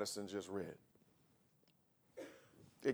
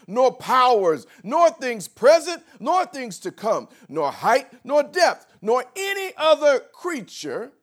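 slow, louder, higher with each nor; building scripture recitation; 8 semitones higher, 10 dB louder, slower than usual. Acted. Pastor quoting Romans, building slow crescendo. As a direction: climb the list toward the top.

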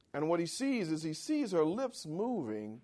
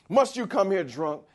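higher, louder accusing question; loud accusing Eli; 7 semitones higher, 8 dB louder than usual. Retold or imitated. Preacher hurls Eli's charge at the congregation, loud and accusing. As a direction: throw the accusation out hard.

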